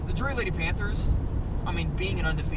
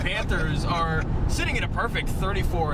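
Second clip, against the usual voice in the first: reporter voice; 2 semitones higher than usual. Retold or imitated. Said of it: "you dropped into the".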